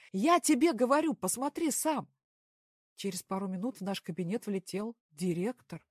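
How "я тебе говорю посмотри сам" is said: loud, high insistence; heated phone shouting. A narrator's reading. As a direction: yell down the line to make him look. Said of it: "Костя кричал в трубку".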